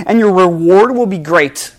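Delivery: loud, strong declaration; firm promise. Acted. God promising Abram a great reward, loud and firm. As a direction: proclaim the reward with force. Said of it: "he says".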